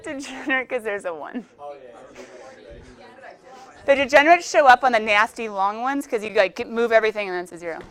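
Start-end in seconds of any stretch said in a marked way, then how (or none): 3.9-6.3 lightly put-on Irish lilt on the explanation; a hint of Irish brogue in a math lecture; mock Irish accent. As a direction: keep teaching but in a jokey Irish accent. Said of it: "I don't know if nasty can be Irish".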